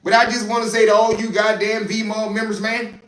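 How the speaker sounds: boisterous put-on Texas accent; hammed-up Texas accent. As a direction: holler like a country Texan, playfully overdone. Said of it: "He's from Texas".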